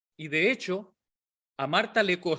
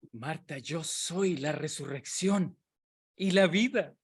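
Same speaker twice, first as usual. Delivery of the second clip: Jesús solemne; 3 semitones lower, 4 dB quieter, slower than usual. Retold or imitated. Jesús habla solemne a Marta.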